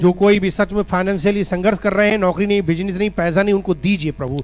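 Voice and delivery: earnest, pressing intercession; insistent public prayer; fervent prayer. Real, not acted. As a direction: plead aloud on behalf of the people. Prays for the struggling.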